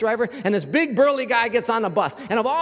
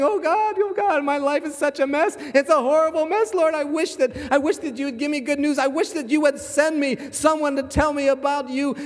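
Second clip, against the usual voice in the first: higher, hammed-up tearful plea to God; mock crying prayer; 4 semitones higher than usual. Big burly man on the bus prays through mock tears. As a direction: play the big man blubbering his prayer, half mocking. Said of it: "he starts crying".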